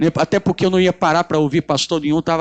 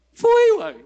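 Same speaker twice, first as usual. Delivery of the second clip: mock yokel answer. Mock country reply to question.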